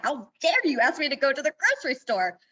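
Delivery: lightly hammed indignant retort; imitating her enraged self; mock outrage. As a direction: act out the old fury, half-joking. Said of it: "I was enraged".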